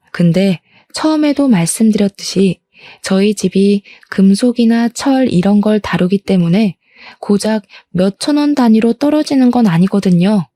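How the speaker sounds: usual speaking voice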